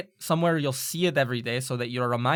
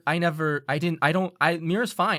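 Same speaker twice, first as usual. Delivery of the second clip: flustered Ira; 3 semitones higher, 4 dB louder than usual. Acted. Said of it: "like a fucking deer caught in the headlights".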